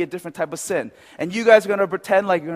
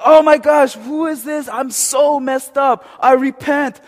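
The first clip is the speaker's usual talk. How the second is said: high, loud, hammed-up despair; anguished repentance; 9 semitones higher, 10 dB louder, slower than usual. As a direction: wail it out like a stage penitent. Acts anguished repentance at mirror.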